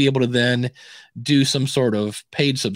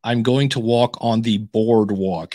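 slowly imitating an exaggerated American accent; imitated American accent; 3 semitones lower than usual. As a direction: mimic an Australian attempting an American accent. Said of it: "we were all doing horrible accents".

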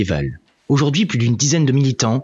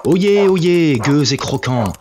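town crier; 3 semitones higher, slower than usual. Acted. Medieval lord chases off peasants.

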